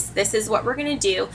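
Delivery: steady and soft, no edge at all; calm, firm voice. Shown as a demonstration. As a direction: set the rule gently but without budging. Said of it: "You say it in a calm, firm voice".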